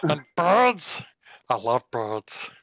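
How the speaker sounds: slow, relishing little fox; fox in clean voice. Acted. Fox lists favourite foods to his friend, slow and savouring. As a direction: draw out each treat as a fox. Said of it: "I'm gonna do this in the clean voice".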